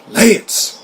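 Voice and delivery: high, incredulous echo of a name; acted disbelief. Co-star reacts to hearing the name Lance, incredulous. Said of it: "What the fuck did I just hear".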